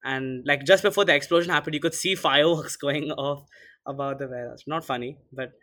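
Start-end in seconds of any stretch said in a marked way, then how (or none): 0.7-4.6 talking through a stifled laugh; suppressed laughter. Real, not acted. Host explaining the fireworks to co-host, stifling a laugh. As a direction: try not to laugh while explaining. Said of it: "Why are you laughing?".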